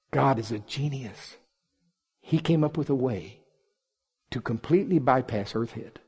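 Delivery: soft, measured, fading to a whisper; hushed awe. Real, not acted. Preacher telling congregation how God reaches his child, hushed. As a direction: let it sink to a reverent near-whisper. Reverent climax of teaching.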